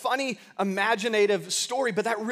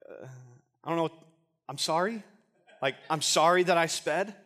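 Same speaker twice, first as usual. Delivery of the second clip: hesitant, questioning mock apology; sheepish apology; 2 semitones lower than usual. Speeder standing before the judge, sheepishly apologising. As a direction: falter with long pauses, unsure it will work.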